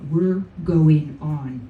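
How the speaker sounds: slow, firm drill sergeant order; military voice. Retold or imitated. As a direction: bark it like a commanding officer. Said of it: "Same military voice".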